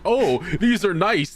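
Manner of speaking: put-on slow, high, doting old man; lightly voiced grandpa, lingering over the words; mock old man admiring cards. Grandpa polishing cards, slow doting old voice. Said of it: "he's just like".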